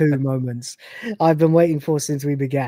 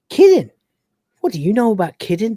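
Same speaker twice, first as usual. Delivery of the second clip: incredulous Lister; 3 semitones higher than usual. Retold or imitated. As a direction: snap back in disbelief.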